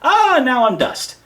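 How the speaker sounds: overplayed defeat groan; mock dying villain. Defeated villain crumbling to dust, hammed-up and loud. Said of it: "then I'm like".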